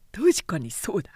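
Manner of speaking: low, threatening samurai voice; menacing young samurai. Acted. Samurai proposing to his friends a beating, low and menacing. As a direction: plot a beating with relish.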